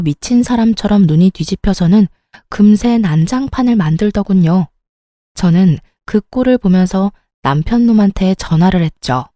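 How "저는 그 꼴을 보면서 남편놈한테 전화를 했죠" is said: usual speaking voice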